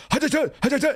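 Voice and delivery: very high, hammed-up Chinese accent impression; thick Chinese accent. Agent retelling his training partner's call in mock Chinese accent. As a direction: squeak it out in an exaggerated Chinese accent. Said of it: "he had a really thick Chinese accent".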